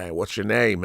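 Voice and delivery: lightly imitated Boston accent. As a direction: quote him with a touch of Boston, softly. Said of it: "with his accent".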